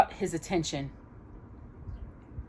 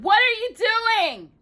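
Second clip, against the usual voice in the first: pleading; 4 dB louder, slower than usual. Acted. Aladdin pleading with genie.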